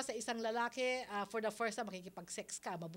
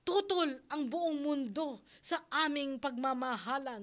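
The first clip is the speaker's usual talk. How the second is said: mock telenovela line; 3 dB louder than usual. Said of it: "Sabihin / Mga telenovela yan eh".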